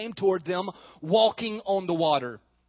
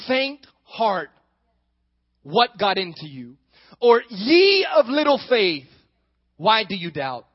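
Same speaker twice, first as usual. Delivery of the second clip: louder, slow chiding; gentle rebuke; 2 semitones higher, 8 dB louder, slower than usual. A narrator's reading. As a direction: scold a frightened friend lovingly. Jesus rebuking Peter.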